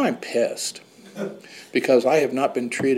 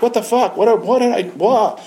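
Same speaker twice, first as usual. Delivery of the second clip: retold panic; 10 semitones higher, 5 dB louder than usual. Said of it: "I was freaked out".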